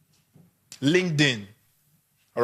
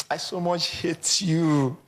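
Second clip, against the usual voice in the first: affectionate hate; slower than usual. Acted. Someone saying they hate you, slow and fond. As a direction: croon it so it sounds like love. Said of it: "you won't believe the words".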